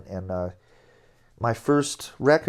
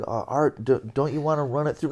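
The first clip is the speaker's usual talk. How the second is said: hesitant, stammered start, then a quick question; sheepish; 3 semitones higher than usual. Retold or imitated. New guy questioning his bandleader in the studio, mildly sheepish. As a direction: timidly check with the bandleader. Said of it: "I kinda sheepishly said".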